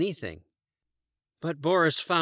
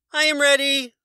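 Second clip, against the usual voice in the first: very high, loud cry; Morris the moose; 8 dB louder than usual. A narrator's reading. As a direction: shout it up high and happy. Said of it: "Morris cried".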